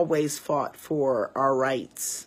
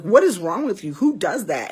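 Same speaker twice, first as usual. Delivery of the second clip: raised, indignant retold challenge; retold outburst; 3 semitones higher, 5 dB louder than usual. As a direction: act out going off on him. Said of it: "I went off".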